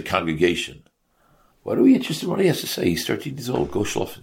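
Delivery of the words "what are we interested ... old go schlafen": high, rushed mock disbelief; mock incredulous objection. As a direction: rattle it off as a dismissive objector. Mock objection to boy speaking.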